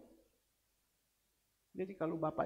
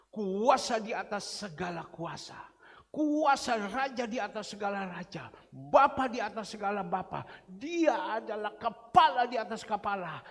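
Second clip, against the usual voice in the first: preaching fervently; 6 dB louder than usual. Real, not acted. Preacher extols Jesus' power.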